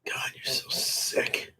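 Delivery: disgusted whisper. Real, not acted. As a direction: mutter it under breath. Muttering after disgusting question.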